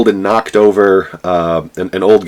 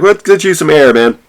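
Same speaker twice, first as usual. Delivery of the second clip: high, coaxing voice steering him out; lightly voiced teacher guiding a drunk outside; a touch of a calm rescuer; soothing head teacher; 8 semitones higher, 5 dB louder than usual. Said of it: "He's like".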